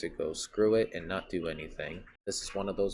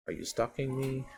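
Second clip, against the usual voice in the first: "Are you stalking me?" asked higher, with a rising, wary push on "me"; higher suspicious retake; 6 semitones higher than usual. Shown as a demonstration. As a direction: pitch the line up as a suspicious accusation. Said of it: "I say".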